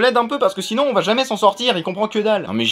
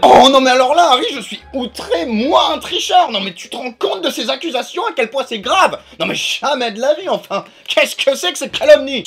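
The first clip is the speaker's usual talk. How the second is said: indignant, raised pitch throughout; outraged protest; 4 semitones higher than usual. Acted. Accused cheater protests to his friend Harry, outraged. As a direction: protest as if gravely insulted.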